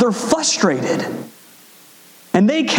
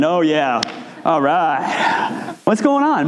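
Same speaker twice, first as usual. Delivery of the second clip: Mister Zen; 3 semitones lower, slower than usual. Retold or imitated. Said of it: "I'm like Mister Zen".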